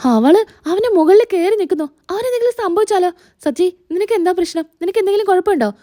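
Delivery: high-pitched worried mother; acted motherly alarm; anxious fussing. Alarmed mother fears for her son.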